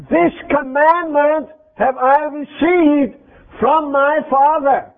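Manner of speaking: slow, weighty and deliberate; emphatic scripture quote. Acted. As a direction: press each word home as scripture. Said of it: "he emphasized the point even more, and he said".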